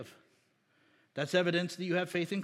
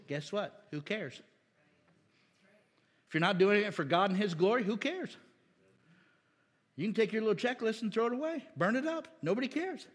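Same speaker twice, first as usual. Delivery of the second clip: fast, higher, brushing it off; dismissive; 4 semitones higher than usual. Real, not acted. Preacher to the church, dismissive and quick. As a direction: wave the checklist away with scorn.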